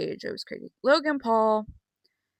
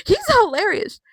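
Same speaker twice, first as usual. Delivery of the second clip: whisper; 11 semitones higher, 4 dB louder than usual. Real, not acted. Whispered aside.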